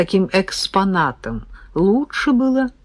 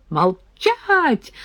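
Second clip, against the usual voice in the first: put-on high shrill squeal of an old man; 9 semitones higher than usual. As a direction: shriek the order at them. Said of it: "взвизгнул Дёмин". (визгливо, высоко)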